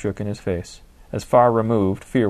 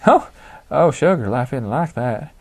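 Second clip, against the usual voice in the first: quick laugh; 5 semitones higher, 6 dB louder than usual. Acted. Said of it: "Gertrude's quick laugh was surprising".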